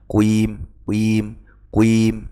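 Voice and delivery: kuim said with a rounded u glide; imitating the mistake. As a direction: copy how people misread it. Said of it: "Ketika orang melafalkan". (menirukan bacaan salah kuim)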